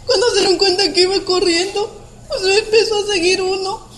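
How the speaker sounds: holding back sobs while telling it; tearful. Real, not acted. Survivor recounting the chase, tearful and shaky.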